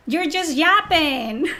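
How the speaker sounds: drawn out slow and scornful; slow it down and mock him; dismissive, slow put-down; slow mocking dismissal. Real, not acted. Mocking a critic.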